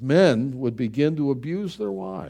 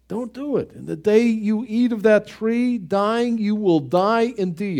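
raised, stern warning voice; God's warning; 7 semitones higher than usual. Acted. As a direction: warn them like God himself. God warning Adam and Eve.

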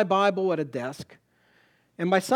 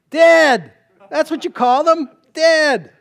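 booming shout; 10 semitones higher, 14 dB louder, slower than usual. Acted. Preacher shouting the grim answer at the congregation, booming. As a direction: shout the answer much louder and higher.

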